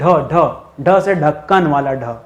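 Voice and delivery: ढ said slowly and distinctly, aspirated retroflex, ढ से ढक्कन वाला ढ; clear slow ढ. Shown as a demonstration. Teacher to students, slowly sounding out ढ. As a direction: stretch out each ढ, deliberately, like dictation. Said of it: "ड नहीं ढ".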